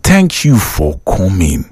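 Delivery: slow, smiling thank you. Shown as a demonstration. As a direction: thank them with a smile in the voice, slowly. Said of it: "you see this smile and".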